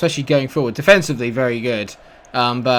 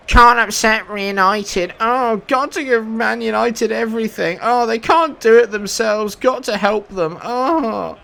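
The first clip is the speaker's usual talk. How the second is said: high-pitched mock-pitying complaint; sarcastic whining; 7 semitones higher than usual. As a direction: whine it sarcastically, high, ending in a groan. Sarcastic complaint about biased decisions.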